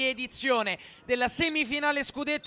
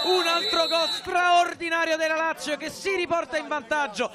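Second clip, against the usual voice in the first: excited goal commentary; 3 semitones higher than usual. Real, not acted. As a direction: celebrate the goal on air.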